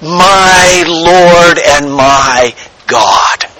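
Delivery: slow, awed confession, drawn out; a hushed, lightly voiced confession of awe; joyful wonder. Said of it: "we confess with joy and with wonder".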